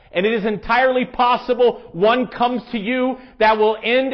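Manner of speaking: deliberate read-aloud, slowing and dropping away at the close. Acted. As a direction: read it out evenly and gravely, line by line. Reads a quoted author aloud.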